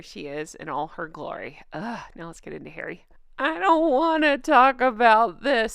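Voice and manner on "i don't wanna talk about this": slow, high whiny complaining. Pretend. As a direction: whine it like a sulky kid. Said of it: "Sorry about the whiny voice".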